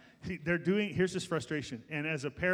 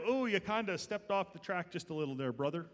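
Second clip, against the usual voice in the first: mock mild rebuke; 4 dB quieter than usual. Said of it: "Not just kind of".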